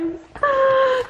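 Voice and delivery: a sharp, high gasp of delight. Real, not acted. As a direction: gasp at how pretty they are. Seeing her florals.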